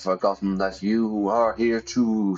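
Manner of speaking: lightly dramatic ghost-story narration; ghostly narration. A narrator's reading. Narrator describes standoff, lightly ghostly. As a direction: read it like a hushed ghost tale. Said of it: "why am I speaking in that voice".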